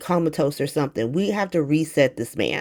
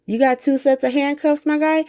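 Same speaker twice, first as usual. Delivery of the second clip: put-on higher, taunting old-man sneer; mock the uncle with a raised, jeering voice; mocking Drew voice; 8 semitones higher than usual. Recapping Drew threatening the kid, a higher mocking voice. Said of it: "Drew is like".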